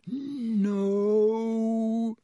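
high panicked yell. A narrator's reading. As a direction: yell it out in alarm. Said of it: "Ron yelled".

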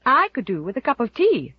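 a mild, sighing plaintive ask; lightly voiced self-pitying aunt; a hint of a weary complaint; plaintively. A narrator's reading. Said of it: "sighed Aunt Mary Maria plaintively".

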